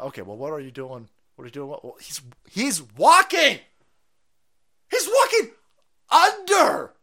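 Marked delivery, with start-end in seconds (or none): 2.5-6.9 high, loud mock celebration; mock ecstatic shout. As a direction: cheer it like a miracle. Mocking the clip's praise.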